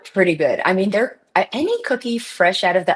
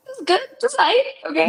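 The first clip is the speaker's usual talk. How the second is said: mock unimpressed verdict; 13 semitones higher than usual. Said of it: "it had something I was like".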